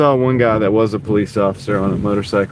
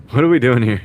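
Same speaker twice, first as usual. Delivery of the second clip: louder, exasperated question at another driver; 2 semitones higher, 4 dB louder than usual. Real, not acted. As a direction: call out in disbelief. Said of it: "repeated louder".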